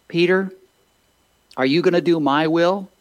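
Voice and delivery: lightly voiced Jesus challenging Peter; voicing Jesus pleading. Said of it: "Jesus says to Peter".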